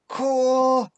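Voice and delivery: high, loud call from far off; kid's distant reply. Acted. Boy calling back from another room, high and loud. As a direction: answer from the next room.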